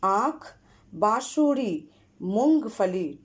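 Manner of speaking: आँख, बांसुरी, मूंगफली with the vowels clearly nasalised; careful nasal vowels. Shown as a demonstration. Teacher to pupils, modelling nasal vowels carefully. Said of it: "आप ध्यान से सुनिए।".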